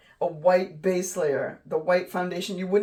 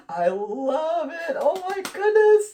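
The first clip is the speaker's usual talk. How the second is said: high, slow, drawn-out squeal of delight; thrilled gushing; 10 semitones higher, 7 dB louder, slower than usual. Real, not acted. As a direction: gush loudly, stretching every word high. Thrilled reaction to finished painting.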